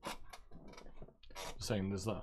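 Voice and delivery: soft breathy whisper; whispered aside. Real, not acted. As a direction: whisper it to yourself. Unvoiced aside.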